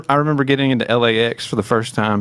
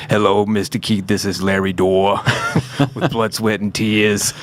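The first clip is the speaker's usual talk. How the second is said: a light, barely shifted take on the band manager on the phone; impression of Larry Dorr. Band manager phoning the singer out of the blue, lightly imitated. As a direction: lightly voice a polite manager introducing himself, half laughing. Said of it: "he's gonna be mad that I did this impression".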